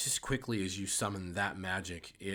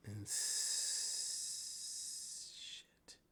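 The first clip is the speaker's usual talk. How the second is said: muttered curse; 8 dB quieter, much slower than usual. Real, not acted. Muttering at software trouble.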